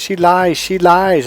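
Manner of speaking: high, repeated imitated wail; mock crying accusation. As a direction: imitate a bawling sister's accusation. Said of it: "sister was crying and crying".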